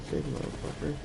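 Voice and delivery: whisper. Real, not acted. Excited about rescuing frog.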